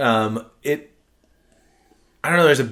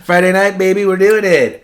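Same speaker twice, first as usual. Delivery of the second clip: excited; 10 semitones higher, 10 dB louder than usual. Real, not acted. Party cheer over strong beer.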